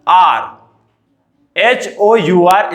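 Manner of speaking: slowly letter by letter; slow spelling. Shown as a demonstration. Teacher to children, spelling hour slowly. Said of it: "अब जैसे आपको कोई पूछे".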